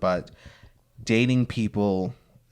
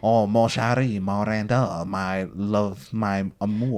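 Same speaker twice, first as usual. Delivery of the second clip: put-on French accent; 2 semitones lower, slower than usual. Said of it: "I'm trying to do a French accent".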